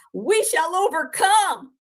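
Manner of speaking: slow, drawn-out "We shall overcome"; mocking her tearful cry, slowly; mock crying quote. Mocking the crying streamer, slow and drawn-out. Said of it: "made fun of you crying".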